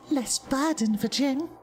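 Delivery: high-pitched, evenly held creature voice; Jin, bargaining creature. Acted. Jin asks a visitor for an offering, high stilted creature voice. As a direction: speak high and stilted, like an odd little trader.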